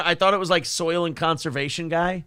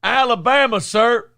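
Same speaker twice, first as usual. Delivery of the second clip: mock shout; 5 semitones higher, 5 dB louder than usual. Answers loudly in character.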